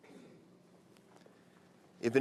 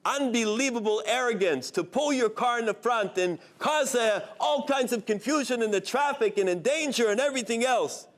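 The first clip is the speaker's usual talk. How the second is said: raised, indignant scolding; angry yelling; 6 semitones higher than usual. Acted. Truck driver yelling at the rabbi's car, indignant. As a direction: chew out the car that cut you off. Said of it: "He starts to yell at them".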